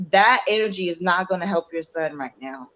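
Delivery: lightly voiced divine counsel, softening at the end; quiet, measured guidance from above. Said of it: "the Most High is like".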